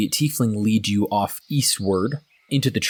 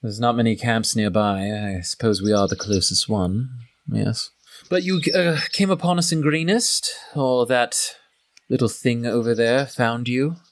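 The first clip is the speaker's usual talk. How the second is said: a lightly voiced half-orc, probing and suspicious; lightly voiced half-orc sizing up a newcomer; half-orc interrogator; 3 semitones higher than usual. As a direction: question the stranger coolly as the half-orc.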